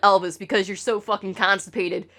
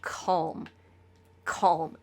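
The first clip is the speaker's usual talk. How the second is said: calming mantra; 6 semitones lower, 6 dB quieter, much slower than usual. Retold or imitated. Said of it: "just said".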